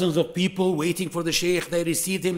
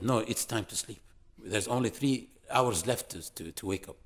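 hushed bedtime urging; 6 semitones lower, 7 dB quieter than usual. Retold or imitated. Sheikh telling student to sleep.

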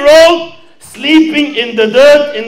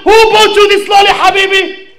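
mildly angry father; 6 semitones higher than usual. Acted. Father scolds son over lolly, mildly angry. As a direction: press the boy, half-cross. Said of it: "starts getting more angry".

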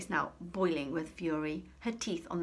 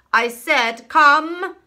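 loud, high, furious "Come!"; angrier shout; 10 semitones higher, 19 dB louder, much slower than usual. A narrator's reading. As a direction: lose patience and yell it. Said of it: "came an angrier sounding voice".

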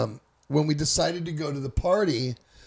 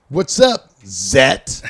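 teasing greeting; 8 dB louder, much slower than usual. Retold or imitated. Schoolmates tease the narrator with his new nickname, loudly. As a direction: call it out, ribbing him.

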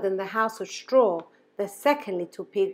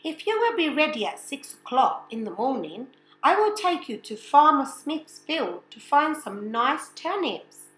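higher, friendly-sounding wolf; 5 semitones higher than usual. Acted. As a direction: sweet-talk like a sly wolf. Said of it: "The wolf said".

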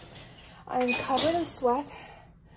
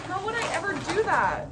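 dramatic wail; 8 semitones higher, 6 dB louder than usual. Retold or imitated. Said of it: "And then I'm like".

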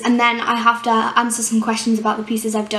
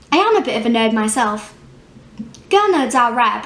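theatrical monologue with deliberate pauses; acted monologue. Exam candidate performing a piece about liking nerds, acted monologue. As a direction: confide it like a stage piece, letting pitch swing on key phrases.

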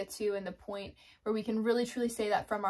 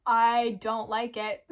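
slow, stretched, louder whiny complaint; half-laughing whine; 7 dB louder, much slower than usual. Real, not acted. To her viewers, admitting her flesh resists, whining slowly.

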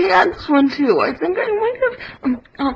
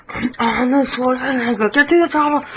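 Arnold Schwarzenegger; 5 semitones lower than usual. Pretend. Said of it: "One hundred impressions".

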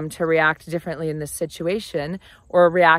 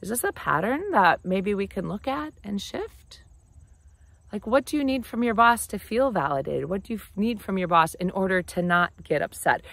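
soft, gentle and unhurried, a little quieter; 5 dB quieter than usual. Shown as a demonstration. Friend gently pointing out a pattern about bosses, soft and caring. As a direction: ease the point in tenderly, no edge. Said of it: "point it out to them really gently".

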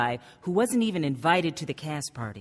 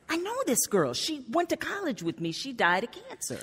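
excited recognition; 9 semitones higher, 4 dB quieter than usual. Retold or imitated. Recognizing the face in album.

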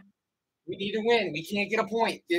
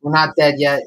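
louder, insisting to the screen; loud defiant shout; 4 semitones lower, 9 dB louder, faster than usual. Real, not acted. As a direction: shout it like a fan. Yelling at the hockey game.

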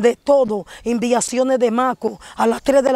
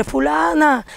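mildly raised, higher call of a name; mock calling out; 4 semitones higher, slower than usual. Calling out the witch on the roof, mock call. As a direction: call the name out, without a full shout. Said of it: "yo le montaba el nombre".

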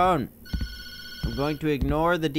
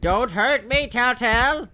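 raised, hammed-up plea; mock pleading; 4 semitones higher, 3 dB louder than usual. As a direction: plead for mercy, higher than usual. Pleading with game creature.

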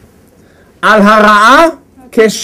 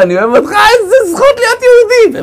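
soaring high-pitched gush; acted elation; 12 semitones higher than usual. Driver telling God his love mid-song, ecstatic high gush. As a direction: send the voice way up in hammed-up bliss. Acts himself elated while driving.

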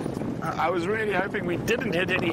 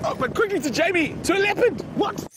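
surprised; 7 semitones higher than usual. Real, not acted. Surprised by leopard news.

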